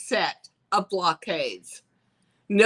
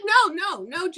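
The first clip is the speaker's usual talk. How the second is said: much higher, bubbly sales-pitch voice; perky talent scout; 10 semitones higher, 3 dB louder than usual. Retold or imitated. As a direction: sell it like a cheery scout on the phone.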